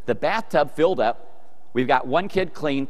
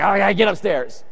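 raised-pitch grumbling command; mock angry order; 6 semitones higher than usual. Wet dad sending his son upstairs, mock exasperation. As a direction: lightly act an exasperated dad. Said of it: "I'm angry. I'm mad".

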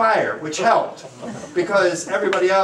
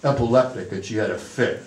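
put-on low, slow-starting New York accent; lightly put-on New York accent; 5 semitones lower than usual. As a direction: imitate a New York paramedic, pitched down. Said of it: "he said in his New York accent".

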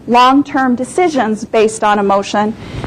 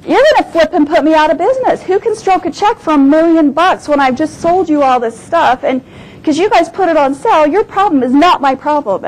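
fast, higher, heated complaint; retold angry protest; 5 semitones higher than usual. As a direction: replay the outburst at the buyer. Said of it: "I got a little ticked off".

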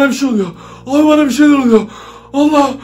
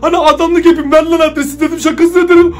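higher, panicky take-back; nervous backpedal; 4 semitones higher than usual. Real, not acted. To viewers, afraid the app will really send it: higher panicky backpedal. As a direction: scramble to take it back as a joke.

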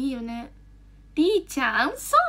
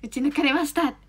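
normal talking voice

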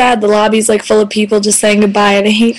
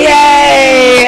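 cheering; 4 semitones higher, 4 dB louder than usual. Real, not acted. Cheering along with Jess.

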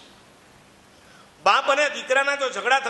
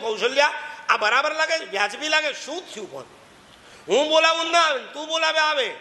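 higher, aggrieved husband's grumble; hurt complaint; 7 semitones higher than usual. Retold or imitated. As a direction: complain with wounded pride. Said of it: "કૌશલ્યાને કીધું". (દુભાયેલા અહંકારથી ફરિયાદ કરતો પતિ)

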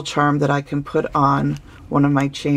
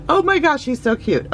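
high excited gush over something cute; 10 semitones higher than usual. Real, not acted. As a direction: squeal it out, overjoyed. Gushing over cute gift.

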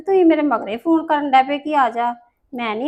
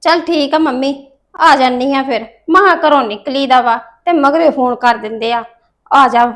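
annoyed grumbling; 7 dB louder than usual. Acted. Daughter annoyed at being called back.

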